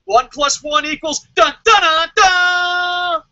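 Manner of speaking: lightly voiced smug executive, slowing to a dumb dun dun dun; mocking WWE. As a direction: parody the company's smug logic. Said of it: "W W E is like".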